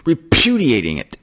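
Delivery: a hint of a stammering cartoon pig; Porky Pig. Preacher jokingly voicing the word as Porky Pig, lightly. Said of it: "Porky Pig would say".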